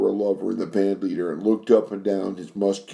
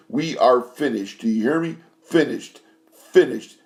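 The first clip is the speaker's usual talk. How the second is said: furious dismissal; 5 semitones higher than usual. Acted. Furious singer throws out her lover.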